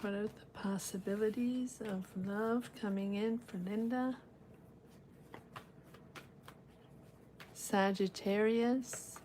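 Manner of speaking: hushed, meditative tarot query; card-reading invocation. Real, not acted. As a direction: ask the cards quietly, as if focusing inward. Intones questions to the cards.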